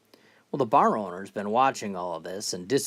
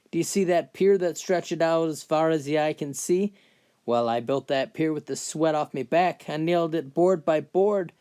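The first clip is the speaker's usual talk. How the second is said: put-on higher-pitched boastful old-timer; McGregor, proud old man; 4 semitones higher than usual. Old man boasting to a lad about his fence, proud and aggrieved. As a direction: play an old builder proudly listing his work.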